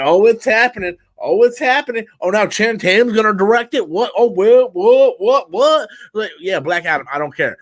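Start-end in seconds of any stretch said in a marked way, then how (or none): 0.0-5.9 mock hype. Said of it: "It's like".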